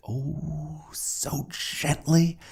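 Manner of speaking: high, slow and airy; tender. A narrator's reading. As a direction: stretch it out, high and delicate. Narrator dwells on gentleness.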